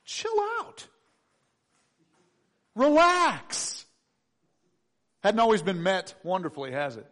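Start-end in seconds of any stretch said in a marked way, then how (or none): 0.0-3.9 mock advice. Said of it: "that wonderful sage advice".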